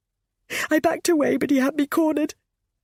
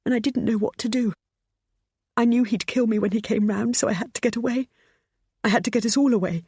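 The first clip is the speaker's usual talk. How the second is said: raised, rushing panic; panicked; 7 semitones higher than usual. Acted. Pammy recounting her escape to her son, panicked. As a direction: hurry it like you're fleeing.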